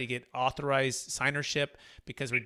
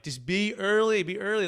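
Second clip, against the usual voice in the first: retold urging, pitched up and stretched; emphatic warning; 5 semitones higher than usual. Telling the clients a year ago, emphatic warning.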